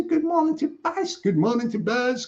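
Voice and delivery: greeting sung out high; high sing-song greeting. Acted. Greeting repeated, high then low.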